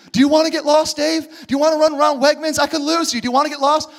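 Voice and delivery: stern scolding parent. Acted. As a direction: scold your lost son Dave. Parent scolding child in store.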